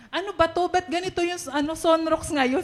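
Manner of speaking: mildly mock-bewildered; puzzled complaint. Quotes own puzzlement to mother.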